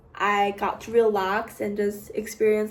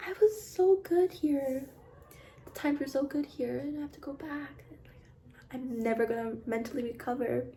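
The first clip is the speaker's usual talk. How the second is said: higher, hammed-up lament fading softer; mock despair; 4 semitones higher, 6 dB quieter than usual. Vlogger pretends to mourn leaving London, mock despair. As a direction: whine it like a tragic heroine, half-joking. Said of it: "I'm like".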